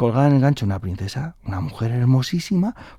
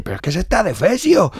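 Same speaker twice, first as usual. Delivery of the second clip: tag; 8 semitones higher than usual. Acted. King appalled by the old woman.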